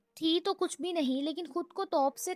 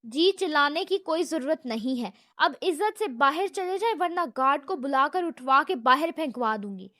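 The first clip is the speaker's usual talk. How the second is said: firm, louder warning; steely firmness; 5 dB louder than usual. Acted. Secretary warns the shouting visitor to leave, steely and loud. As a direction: put steel in the voice and stand your ground. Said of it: "آواز میں فولاد کا وزن ڈال کر کہا".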